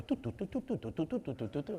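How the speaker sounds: light, quiet tu-tu-tu patter; soft rapid tu-tu walking noise; little stepping noises. Retold or imitated. Imitates little steps while carrying child.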